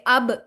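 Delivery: अब with the ब bounced; qalqala bounce. Shown as a demonstration. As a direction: give अब a short echoing release on ब. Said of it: "इस तरीके से".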